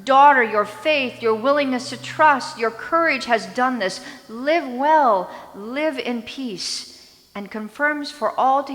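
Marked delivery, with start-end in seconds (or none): 0.0-7.1 louder, ringing out the blessing, slowing at the end; proclaimed blessing. Acted. Jesus confirming her healing before the crowd, proclaiming loudly. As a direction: declare it for all to hear.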